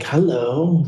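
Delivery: lightly imitated Italian accent, voice lifted. Woman greets newcomer in the commissary, lightly imitated Italian accent. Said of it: "like, an Italian accent".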